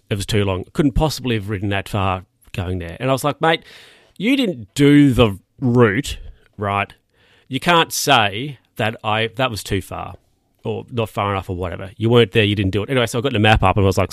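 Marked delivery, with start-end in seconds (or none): 3.4-12.9 retold exasperated retort.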